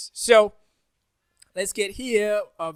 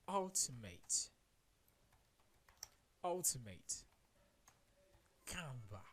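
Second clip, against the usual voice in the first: spooky voice; 2 semitones higher, 14 dB quieter, slower than usual. Pretend. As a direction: speak it like a ghostly announcer. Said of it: "I sound spooky, right?".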